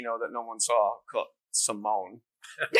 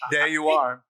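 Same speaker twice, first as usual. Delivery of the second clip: raised, halting actor impression; Christopher Walken; 5 dB louder, slower than usual. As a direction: put on his odd, deliberate cadence. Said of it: "so Christopher Walken".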